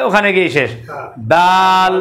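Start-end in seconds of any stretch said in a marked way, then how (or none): 1.3-1.9 ডাল started at the root of the upper teeth; ডাল with the tongue on the tooth ridge; Arabic dal. Shown as a demonstration. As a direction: Quran teacher showing ডাল. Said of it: "উপরের দাঁতের গোড়ার সাথে শুরু হবে".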